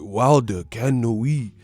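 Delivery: slow, lightly put-on Mohican accent; mock Mohican. Streamer mocks the rival as last Mohican, mock Mohican. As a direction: imitate Last of the Mohicans speech, drawn out. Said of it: "last Mohican in my shit".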